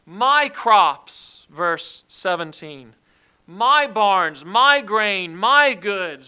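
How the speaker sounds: each my hit loud and proud; stress on my. Shown as a demonstration. Preacher stressing my to show the self-focus. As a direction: punch the word my. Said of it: "And then the word my".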